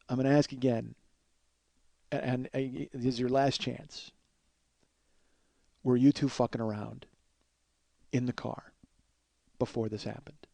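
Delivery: measured warning with long pauses; retold stern interrogation, quietening as it goes. Dan gives the boys their last chance, calmly stern and deliberate. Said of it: "he was very stern with me".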